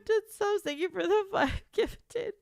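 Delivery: high, giddy gushing; thrilled thanks. Real, not acted. Streamer thanking a viewer for gifted subs, high and giddy. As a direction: say it high, breaking into a laugh.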